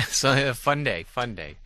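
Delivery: wry, drawn out after a chuckle; dry self-mocking irony; sarcastic. Real, not acted. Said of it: "Say that sarcastically".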